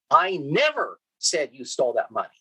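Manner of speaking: "never" hit hard with a falling tune; stress on NEVER. Shown as a demonstration. Lecturer showing students emphasis on "never". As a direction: lean into "never" as a flat denial. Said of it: "depending on where I put the emphasis".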